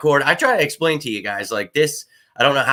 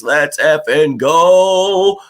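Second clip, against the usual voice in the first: excited; 4 semitones higher, 6 dB louder, much slower than usual. Real, not acted. Hyped about the preseason.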